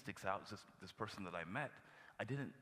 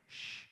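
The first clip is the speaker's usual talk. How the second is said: demo shush. Shown as a demonstration. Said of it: "to even say".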